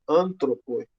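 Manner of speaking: Antropoi with the opening AN stressed; stress on first syllable. Shown as a demonstration. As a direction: put the weight on AN in Antropoi. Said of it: "o que não acontece no nominativo".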